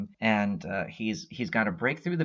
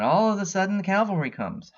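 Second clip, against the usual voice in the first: much higher and louder, hyped storyteller reveal; dramatic excitement; 10 semitones higher, 4 dB louder, faster than usual. Real, not acted. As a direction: announce the rescue like a movie trailer moment. Hyped reveal of Storm's rescue.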